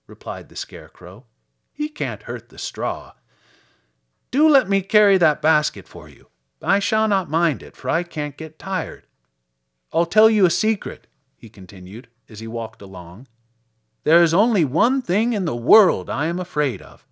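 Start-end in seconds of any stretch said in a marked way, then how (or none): 1.7-11.1 lightly voiced scarecrow, lifting in pitch; obliging scarecrow. Scarecrow offers to carry girl's basket, obliging. 14.0-17.1 lightly voiced, louder scarecrow admission; confiding scarecrow. Scarecrow confides his one fear to girl, confiding.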